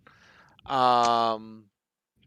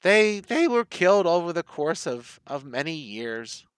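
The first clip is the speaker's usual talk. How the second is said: put-on old woman; 3 semitones higher than usual. Game master answers as old Nanny.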